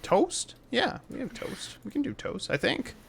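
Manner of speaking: put-on high child's voice; eager little kid. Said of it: "I love your kid voice".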